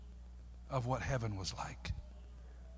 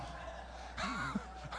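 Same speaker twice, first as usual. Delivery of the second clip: soft, voiceless laughter; real laugh; 9 dB quieter than usual. Real, not acted. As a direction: laugh it off under your breath. Laughs after his own singing bit.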